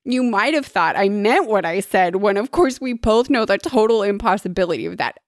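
lightly put-on fancy lady; mock-genteel storybook heroine; fanciest tone. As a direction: play it airily grand, covering up. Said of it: "said in her fanciest tone".

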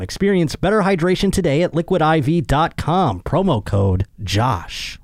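strained, fading voice; losing voice. Real, not acted. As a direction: voice giving out. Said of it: "losing my voice here".

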